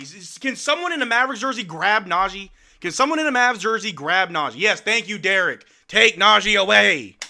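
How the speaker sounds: fed-up fan yelling; frustrated yelling at the screen. Real, not acted. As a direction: shout at the screen for someone to pull him away. Yelling at the screen about Najee.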